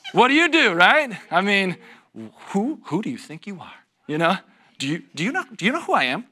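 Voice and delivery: high, loud mock indignation, half laughing; hammed-up road-rage huff at a rude driver; mock indignant outrage. Pastor hams up road rage at a driver, high and loud.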